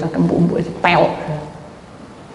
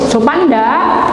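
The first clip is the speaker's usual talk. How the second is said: loud, raised challenge; indignant rhetorical question, louder; 5 semitones higher, 5 dB louder, much slower than usual. Acted. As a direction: demand an answer, pitched up. Indignant question about rude behaviour.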